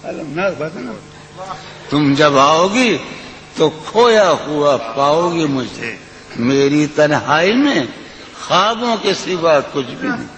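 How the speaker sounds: lilting, sung-through recitation of a ghazal; poetry recitation. Acted. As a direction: recite it like at a mushaira.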